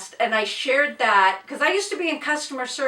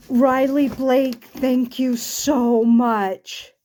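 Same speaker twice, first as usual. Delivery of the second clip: tearful thanks; much slower than usual. Real, not acted. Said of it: "bawled my eyeballs out".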